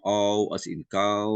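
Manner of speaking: "ow" and "cow" drawn out; slow teaching voice, long "ow" in "cow"; diphthong demonstration. Shown as a demonstration. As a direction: stretch the glide in "ow" and "cow". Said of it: "we were introduced to diphthongs".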